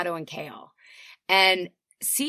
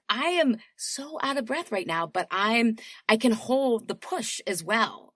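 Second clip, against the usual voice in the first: strained workout voice; 3 semitones higher than usual. Pretend. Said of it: "So I'm like".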